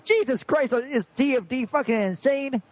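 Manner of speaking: high, worked-up redneck. Acted. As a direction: rant it high and outraged. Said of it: "I'm a redneck after all".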